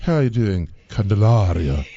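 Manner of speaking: drawn-out dramatic greeting. Shown as a demonstration. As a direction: say the name with drama. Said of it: "can I say it with drama".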